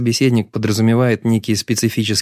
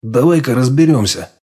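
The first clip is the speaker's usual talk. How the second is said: firm; 2 semitones higher, 3 dB louder than usual. Acted. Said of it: "жёстко возразил я".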